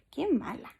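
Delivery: soft unvoiced whisper; hushed conspiratorial whisper; whispered aside. Real, not acted. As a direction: whisper it to the class. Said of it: "whispered aside to class".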